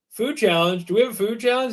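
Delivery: lightly voiced new employee asking, puzzled; puzzled question, pitch lifting as it goes; a hint of an unsure phone answerer; clueless new guy. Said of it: "the new guy answers the phone".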